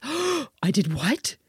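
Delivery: slow, breathless whisper of surprise; whispered shock. Retold or imitated. Daughter realizing she copied the accent, shocked whisper. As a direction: gasp it out in a hushed whisper. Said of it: "And she's like, gasps".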